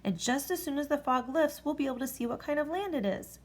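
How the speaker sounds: put-on a boy figuring it out; exclaimed. A narrator's reading. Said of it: "exclaimed Elmer".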